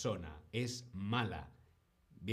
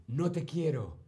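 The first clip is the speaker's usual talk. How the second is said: a lightly acted, blunt "No te quiero"; mock cruel remark; 4 semitones higher than usual. Teacher voices someone rejecting another, a hint of mock cruelty. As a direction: say "No te quiero" flatly, as if meaning to hurt.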